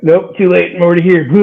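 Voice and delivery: defiant comeback. Retold or imitated. Drunk boyfriend answering sister from the sink, mock defiance. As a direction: act out a drunk refusing to budge.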